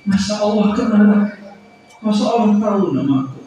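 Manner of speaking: can it really be that God knows me; overwhelmed, disbelieving whisper of joy rising; amazed disbelief. Retold or imitated. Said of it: "Itu maksudnya".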